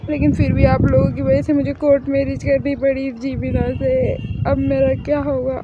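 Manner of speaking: loud, hammed-up wailing fangirl; mock wailing lament. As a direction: wail over your lost idols. Daughter laments forced court marriage. (शादी के बाद BTS के लिए नाटकीय रोना-धोना)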